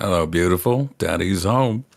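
lightly voiced impression, held back halfway through; Jack Nicholson. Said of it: "Jack Nicholson's coming out".

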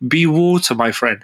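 lightly imitated Bruce Lee accent; a touch of a movie martial-arts master's accent. Podcaster quoting a Bruce Lee video to his co-host, lightly put-on accent. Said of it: "I don't know why I put the accent on".

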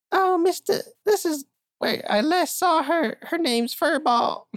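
a desperate client pleading; frantic woman. Acted. Woman client begs the detective for help, high and squeaky. Lady shows where cat was.

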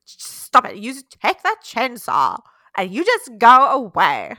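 loud Scottish telling-off; emphatic comic Scottish scolding; mock Scottish accent. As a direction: send them packing in fake Scots. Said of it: "Jeffrey in Scottish".

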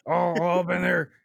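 mock angry. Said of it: "I'm angry".

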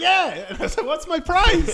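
high, loud mock excitement; hammed-up glee, laughing; retold triumph. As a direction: crow it like a gullible winner. Retold drunken triumph at breathalyzer.

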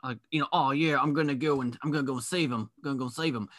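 lightly put-on Australian accent; loose, casual stab at an Australian hero; Jason Statham, attempted Australian. Imagining the hero heading into the submarine, mock Australian accent. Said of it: "right, gruff and Australian".

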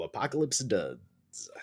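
breathy stage whisper on the title; a dramatic whispered title drop; whispered show name. Acted. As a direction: hush it like a spooky reveal.

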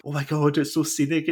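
high, loud, gushing tourist; mock gushing. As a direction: gush over the view. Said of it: "people are like".

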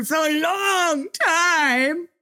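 wailing lament. Acted. Ghost longing to leave.

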